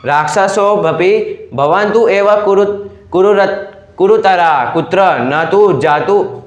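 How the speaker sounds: slow, careful reading of Sanskrit verse; measured scripture-style reading; slow text recitation. Acted. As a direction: recite the lines word by word, slowly. Reads Sanskrit verse aloud.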